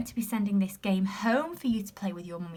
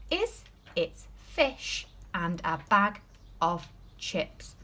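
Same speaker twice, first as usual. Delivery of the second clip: slow reading; 3 semitones lower, much slower than usual. Shown as a demonstration. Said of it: "Let's read that sentence again".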